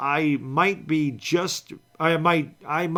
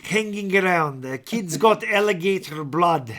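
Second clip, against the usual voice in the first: Teddy KGB imitation. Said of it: "do it again, the, uh, Teddy K G B".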